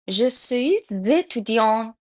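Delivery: "Je suis étudiant" with the final s of "suis" sounded as z; French liaison. Shown as a demonstration. Teacher gives learners a simple example, French liaison. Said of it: "چرا اینجا اس ز تلفظ شد".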